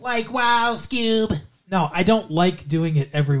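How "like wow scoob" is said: dopey Scooby-Doo stoner voice; higher, drawn-out Shaggy voice. Shown as a demonstration. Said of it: "you mean the shaggy voice?".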